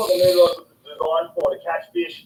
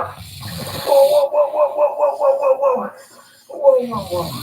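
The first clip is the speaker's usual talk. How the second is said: excited; 3 dB louder, slower than usual. Real, not acted. Big fish thrashing on the line.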